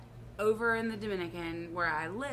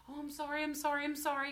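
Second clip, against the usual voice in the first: higher, sweet rushed apologies; sorry, sorry, in the polite Southern way; sweet apologetic Southern belle; 7 semitones higher, faster than usual. Retold or imitated. Apologizing to the trucks, sweet and high. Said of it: "the Southern belle in me".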